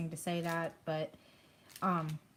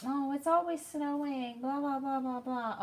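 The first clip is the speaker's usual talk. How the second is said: high-pitched imitation of complaining kids; mock complaining; 6 semitones higher than usual. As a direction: mimic kids griping, high and dismissive. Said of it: "all my kids complained".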